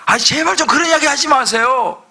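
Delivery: lightly played irritated crowd; annoyed protest. People protesting prophet Micah, mock exasperated. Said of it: "이렇게 이야기해요".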